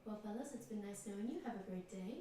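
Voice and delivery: mock nervous exit. Player backs away nervously.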